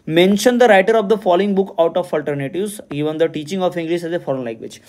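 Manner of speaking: reads the exam question aloud slowly and deliberately; slow question reading. Acted. Teacher reading a quiz question to students, slow and deliberate. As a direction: dictate each word of the question slowly.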